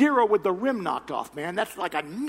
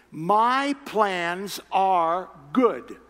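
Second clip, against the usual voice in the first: very slow, deliberate promise; slow reassurance; 5 dB louder, much slower than usual. Retold or imitated. God reassuring Cindy, slow and deliberate. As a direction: stretch it out gently.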